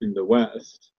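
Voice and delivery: choppy cutting-out call audio; words dropping out on a bad line; glitching audio. Real, not acted. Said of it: "You keep cutting out".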